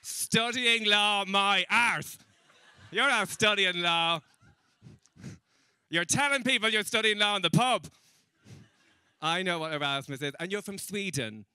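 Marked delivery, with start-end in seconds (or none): 0.0-7.9 loud, higher, drawn-out scoffing; mock outraged disbelief. Comic to Icelandic student just drinking, loud mock outrage. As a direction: call out their lie with mock indignation. Mocking student's claim of studying law.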